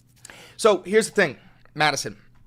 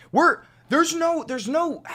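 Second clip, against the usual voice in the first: heated rant; 12 semitones higher, 5 dB louder, slower than usual. Real, not acted. Heated rant, searching for words.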